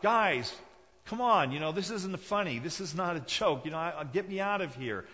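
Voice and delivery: high, loud, desperate pleading from the well; a trapped boy shouting up from a well for mercy; begging for mercy. Acted. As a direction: beg your brothers to pull you up. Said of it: "He's begging for mercy".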